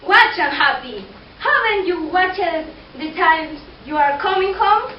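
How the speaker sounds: loud scolding wife; nagging wife yelling at husband; angry wife. Acted. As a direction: scold him for coming home late.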